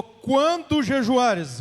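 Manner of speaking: "Quando jejuares" drawn out slowly with a stressed "Quando"; slow emphatic lead line. Shown as a demonstration. Preacher leading the congregation in repeating, slow and stressed. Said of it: "repita comigo".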